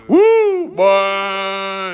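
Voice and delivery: very high, drawn-out whoop; long falsetto holler of delight; satisfied shark whoop. Acted. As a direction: whoop it high like a well-fed shark savouring a meal. Voicing a satisfied tiger shark.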